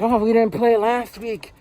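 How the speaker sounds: put-on boy complains to his dad, slow and whiny; whiny kid. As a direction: drag it out like a sulking child. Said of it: "he's just like".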